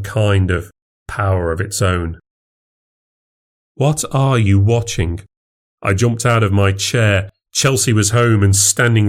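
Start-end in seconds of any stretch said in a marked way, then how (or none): 3.7-5.2 a curious wife peeking over his shoulder. Acted. Wife surprises him at laptop.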